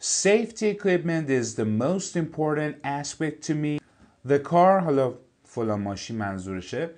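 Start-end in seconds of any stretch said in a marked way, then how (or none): 0.0-4.8 slow, careful reading of an English text; slow textbook reading. Shown as a demonstration. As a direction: read each word out clearly for the class. Teacher reads English text aloud. (خواندن آهسته و شمردهٔ متن انگلیسی)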